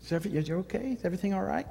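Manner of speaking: gentle concerned asking. Shown as a demonstration. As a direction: ask tenderly, leaving room to answer. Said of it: "I don't always say".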